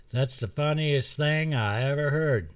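a hint of a delighted hermit; amused old woodsman. Woodsman laughs at the boys being caught, amused.

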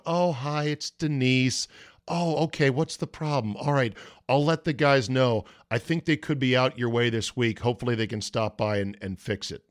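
breezy, helpful greeting, lightly imitated; friendly phone receptionist. Installer's receptionist promising a callback, lightly imitated friendly manner. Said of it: "very friendly woman on the phone".

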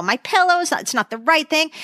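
put-on complaining child. Mother imitating her sick daughter fussing in bed, complaining. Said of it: "she was complaining about her pillow".

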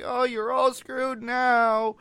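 high, slow, drawn-out emphatic line; emphatic Hulk. Retold or imitated. Retelling Bruce's arrival line, emphatic and drawn out. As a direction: stretch it out with big emphasis. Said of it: "he's so emphatic about it".

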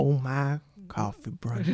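drawled southern accent on "Oh my coffee brunch". Shown as a demonstration. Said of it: "You should do a southern, drawn southern accent".

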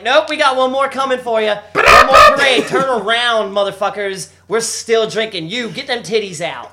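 loud, high partying yell; rowdy shouting. Retold or imitated. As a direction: hype up the crowd with a yell.

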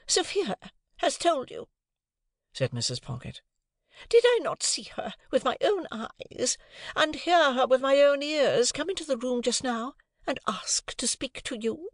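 shrill, indignant lady of the house; high, offended and superior; haughty high lady. A narrator's reading. Missus Pocket accuses.

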